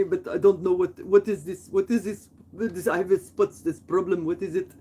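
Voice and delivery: imitated fretful neighbor with an accent; mildly mock a man freaking out over spots; almost crying. Panicked neighbor shows his spots, imitated near-tears fretting. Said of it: "He was almost crying".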